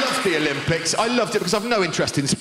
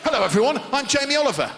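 higher, bouncy TV chef voice; chirpy celebrity chef presenting; Jamie Oliver; 6 semitones higher, faster than usual. Retold or imitated. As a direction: TV chef greeting his viewers. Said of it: "I'll show you".

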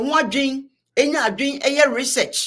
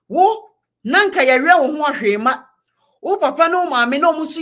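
higher, louder accusing tone; heated call-out; 4 semitones higher, 4 dB louder than usual. Real, not acted. Vlogger confronting Kennedy Japan, a heated louder rebuke. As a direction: call him out to his face.

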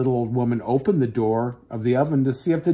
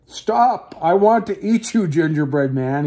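shouted; 3 semitones higher than usual. Acted. Old man chasing the cookie, mild mock shout. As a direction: yell after him as you chase. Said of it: "he shouted".

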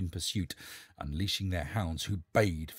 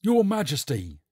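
captain calling out; 7 semitones higher, 8 dB louder than usual. Acted. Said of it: "said the captain".

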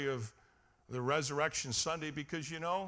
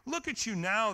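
mock yell; 4 semitones higher, 4 dB louder than usual. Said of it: "they yelled at him".

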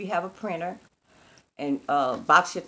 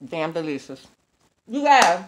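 chewing while talking; mouth full; 2 semitones lower, 4 dB louder than usual. Real, not acted. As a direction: mumble it through a bite of food. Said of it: "talking with my mouth full".

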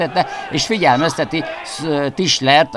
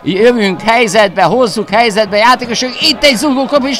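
excited hungarian sports commentary; 4 semitones higher than usual. Real, not acted. Commentator calls the pressure.

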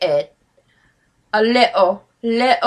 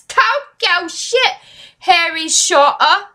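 excited exclamation; 5 semitones higher than usual. Real, not acted. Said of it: "I'm sure that's how he says it".

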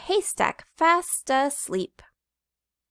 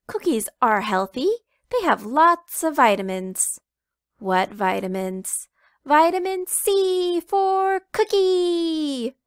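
a cheeky chick making her case; arguing little chicken; 7 semitones higher, 6 dB louder than usual. Acted. Little chicken arguing with Papa that cookies are healthy, loud and high.

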